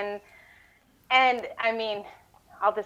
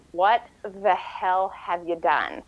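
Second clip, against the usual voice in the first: incredulous; 2 semitones lower, slower than usual. Retold or imitated. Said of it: "I'm looking at him just like".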